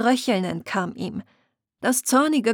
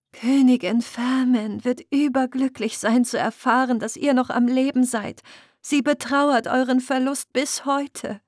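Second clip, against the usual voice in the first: lightly voiced selkie woman, higher, eager; a hint of a joyful young selkie; 4 semitones higher than usual. Selkie woman tells Muriel the queen will rejoice, lightly voiced.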